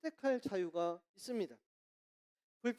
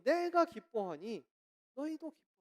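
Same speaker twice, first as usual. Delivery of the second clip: wronged apostle in prison; 4 semitones higher than usual. Retold or imitated. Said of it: "억울하게 감옥 간 바울이".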